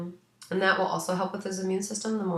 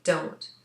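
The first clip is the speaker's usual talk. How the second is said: a single weighty Don't, lightly punched; emphatic DON'T. Retold or imitated. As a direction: quote Don't as if in capitals. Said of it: "that was in capitals".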